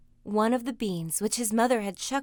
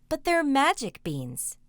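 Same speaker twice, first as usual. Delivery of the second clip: put-on eager boy, pleading; 5 semitones higher, 5 dB louder than usual. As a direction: beg her to believe you. Jack pleads with his mother.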